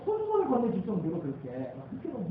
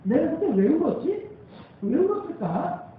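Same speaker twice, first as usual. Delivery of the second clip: higher and louder, like it just dawned on you; preacher acting out his own sudden realization, raised pitch; 7 semitones higher, 4 dB louder than usual. Shown as a demonstration. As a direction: exclaim the question as if struck by the answer. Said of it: "틀린 생각일까요?".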